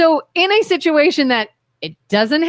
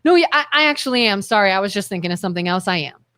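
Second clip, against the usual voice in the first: reassuring backtrack; 6 semitones lower, faster than usual. Retold or imitated. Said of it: "And I go".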